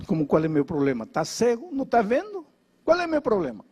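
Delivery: put-on bitter young man snapping back at the pastor; angry retort. Paralyzed son hurls it at the pastor, indignant and rising.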